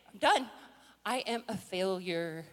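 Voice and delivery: deflate into giving up; mock hopeless surrender; acted defeat. Acts defeat after the meltdown.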